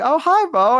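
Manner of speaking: high, lilting imitated hello; greeting old neighbour. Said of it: "she'd be like".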